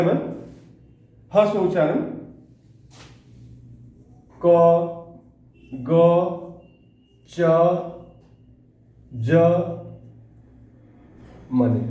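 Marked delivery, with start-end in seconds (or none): 4.4-9.3 क, ग, च, ज each cut very short; brief, separate क, ग, च, ज with short vowels. Shown as a demonstration. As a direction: say क, ग, च, ज as quick single beats. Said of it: "हस्व उच्चारण मतलब उच्चारण करे में".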